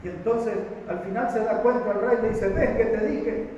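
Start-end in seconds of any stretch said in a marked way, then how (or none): 2.5-3.5 slow, drawn-out "¿Ves que te dije?"; told you so. Acted. King Acab to Josafat, slow told-you-so complaint. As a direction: stretch it out like a sulking king.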